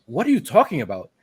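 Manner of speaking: mock bewildered question, mildly played; a touch of flabbergasted disbelief; dumbfounded. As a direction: imitate someone completely thrown. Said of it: "he's like, he's dumbfounded".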